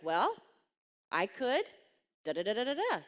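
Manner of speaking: retold dawning idea, rising in pitch; imitated blurting out. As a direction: act out an idea suddenly tumbling out. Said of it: "just, like, blurted out of her mouth".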